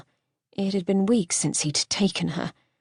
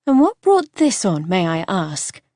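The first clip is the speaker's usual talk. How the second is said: Miranda's voice; 5 dB louder than usual. Acted. Wife asking her husband what brought this on, lightly voiced.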